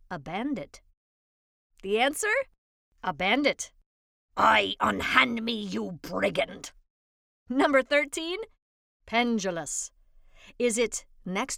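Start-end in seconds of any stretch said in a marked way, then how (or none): 4.4-6.7 melodramatic stage declamation, drawn out; hammy stage actor. Acted. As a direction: ham it up like an old melodrama hero. Example sentence acted out theatrically.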